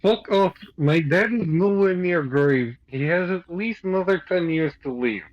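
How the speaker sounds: stilted, protective rebuke; Greg in character. Acted. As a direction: tell someone off in character. Player voices Greg defending his dad.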